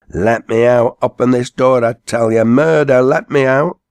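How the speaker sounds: high, loud, frantic yelling. A narrator's reading. Ben calling to passing haymakers, frantic loud shouting. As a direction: bang the door and scream to be let out. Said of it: "cried out louder than ever".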